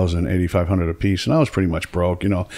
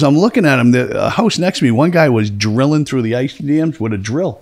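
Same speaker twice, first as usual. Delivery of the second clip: imitated worker's amazed report, raised pitch; worked-up disbelief; 5 semitones higher than usual. Worker reporting the drilling next door, incredulous.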